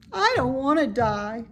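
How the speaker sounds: high, fearful little pig; childlike high fearful voice; frightened. Acted. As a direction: plead it, scared of dying. Frightened pig fears death.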